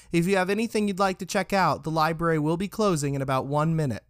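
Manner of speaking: lightly voiced closing-time announcement; staff announcement. A narrator's reading. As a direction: address the room as library staff. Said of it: "The staff announced".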